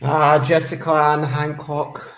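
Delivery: low, stern full-name scolding; stern mum voice. Pretend. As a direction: call her name like a cross mum. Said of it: "I feel like I'm in trouble when you say it like that".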